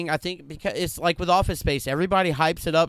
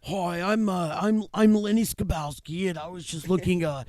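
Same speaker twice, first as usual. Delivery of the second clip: put-on playful Jewish accent; light put-on Jewish accent; 2 semitones higher than usual. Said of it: "That was my Jewish accent".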